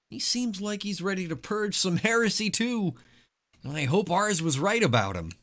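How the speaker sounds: high, eager zealot voice; NPC character voice. Acted.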